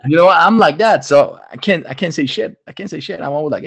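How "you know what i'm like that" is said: ordinary talk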